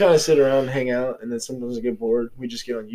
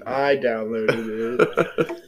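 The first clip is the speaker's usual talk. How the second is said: slow, drawn-out mock quote; teasing slow-motion imitation; imitating the wife; 2 semitones lower, much slower than usual. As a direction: stretch it right out, mimicking her. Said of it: "He said".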